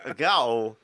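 put-on Boston, exasperated and drawn out; hammed-up Boston accent sliding into Walken. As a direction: play an indignant amateur Bostonian.

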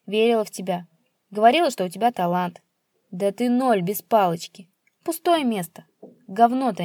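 father berating his son; insulting tirade. Acted. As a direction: hurl the insults.

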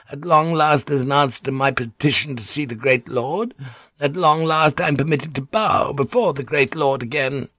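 put-on woman's voice, dwelling on each grievance; aggrieved Kyoko. Kyoko telling of her long-awaited audience, pointed.

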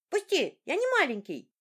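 high, loud laughing squeal; squealing boy. A narrator's reading. Son squirming away from his father's kiss, squealing. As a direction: squeal and fight him off like a tickled kid. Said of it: "отбивался мальчик".

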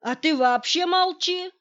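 рявкнуть высоко и громко; оборвать насмешника грубым окриком; злобный окрик. A narrator's reading. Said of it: "рявкнул Николай Сергеевич". (громкое злое «молчи!»)

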